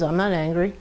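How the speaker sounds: clipped, tight denial through suppressed anger; harsh tone. Shown as a demonstration. Group leader demos suppressed anger: tight denial. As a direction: deny being angry while plainly upset. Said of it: "but do you hear my tone?".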